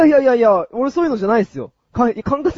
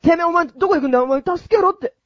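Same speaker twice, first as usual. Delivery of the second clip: delinquent tough talk; 3 semitones higher than usual. Pretend. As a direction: yell revenge after him. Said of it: "ヤンキーをやります".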